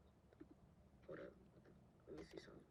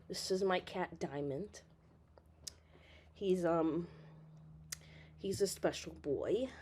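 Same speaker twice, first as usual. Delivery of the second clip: soft, quiet voice near the cat; hushed; 5 semitones lower, 15 dB quieter, slower than usual. Real, not acted. Owner introduces her old cat softly to viewers. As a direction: keep it down, pet nearby.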